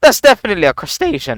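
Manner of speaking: voice cracking and breaking mid-line. Reacting to a little creature seen on screen: voice cracking. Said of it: "my voice cracked".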